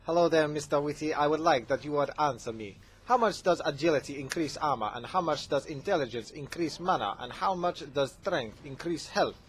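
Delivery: imitation Saudi accent, lightly done. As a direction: read it out as an imitated Saudi fan. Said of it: "from Saudi Arabia".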